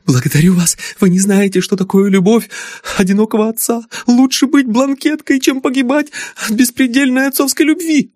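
very high, agitated gratitude; breathless thanks. Acted. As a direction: gush thanks while still frightened. Daughter thanks rescuer, agitated.

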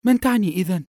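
high, loud bewildered question; puzzled question. A narrator's reading. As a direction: ask in confusion, voice lifted. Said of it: "فقالت ابنته بحيرة".

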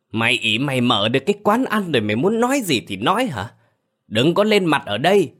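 put-on slurred drunken ranting; drunk slurring. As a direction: talk like a drunk, words slurred. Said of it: "giọng lè nhè đặc trưng của người say rượu". (giọng lè nhè say rượu)

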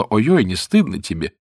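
usual speaking voice

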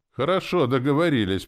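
high, loud, cheerful agreement; good-natured. A narrator's reading. Hero thinking his agreement to the spirit, good-natured. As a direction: agree brightly and amiably, pitched well up. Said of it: "подумал я добродушно".

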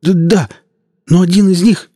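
high, stammering, pleading voice; frightened policeman. Acted. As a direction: beg for mercy, stuttering with fear. Policeman answers in fear.

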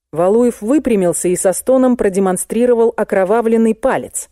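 plain reading voice

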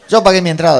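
high, loud mock yell; indignant protest. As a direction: assert your rights as an irate customer. Espectador protesta en cine. (protesta indignada a gritos)

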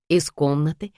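plain reading voice

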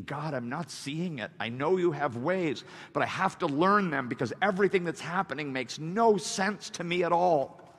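mild plea, building in pitch; pleading. Acted. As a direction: plead earnestly, rising as it goes. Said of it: "David is pleading".

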